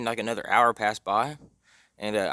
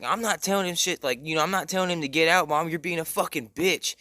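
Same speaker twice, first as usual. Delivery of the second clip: higher-pitched retold back-talk; defiant son; 5 semitones higher than usual. Son refusing his mom's order, mock defiant. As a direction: imitate a teen arguing with his mom.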